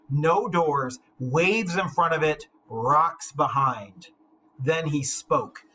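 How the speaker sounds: measured, solemn epic reading; story narration. A narrator's reading. Teacher reading Beowulf to the class, solemn narration. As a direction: read the old tale with weight.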